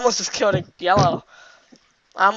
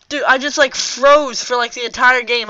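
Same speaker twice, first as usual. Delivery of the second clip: hyped gamer bro; 3 semitones higher, 5 dB louder than usual. Real, not acted. Frustrated about freezing in game.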